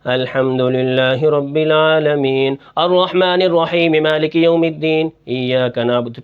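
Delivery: slow recitation dipping into a low pitch. Shown as a demonstration. Teacher shows students a recitation fault, dropping the voice in places. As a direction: chant slowly, letting the voice sink here and there. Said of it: "کہیں آواز کو کم کرنا".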